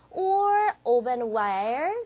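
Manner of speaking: "ovenware" stretched with a long rise; slow "or ovenware", climbing at the end; don't let "ovenware" drop; steadily rising ending. Shown as a demonstration. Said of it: "여기서 쭉 올라갈게요".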